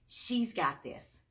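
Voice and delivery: slow, punchy title read; title announced. Shown as a demonstration. Reader proudly announcing the book title to kids.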